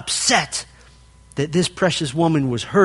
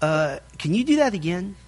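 clueless husband; 5 dB quieter than usual. Retold or imitated. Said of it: "he'll go".

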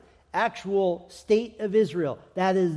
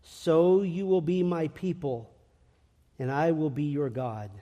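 tender reading. Shown as a demonstration. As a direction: read it gently, lingering. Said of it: "listen to the tenderness of this".

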